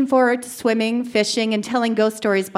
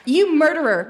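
hysterical scream; 6 semitones higher than usual. A narrator's reading. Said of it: "she screamed hysterically".

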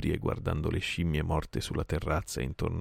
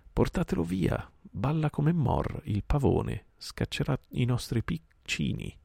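higher, slower snake voices; hissing cobras; 9 semitones higher than usual. A narrator's reading. Cobras inside the wall complaining about the dancing boy, higher. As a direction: complain like nervous cobras in the dark. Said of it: "dissero i cobra".

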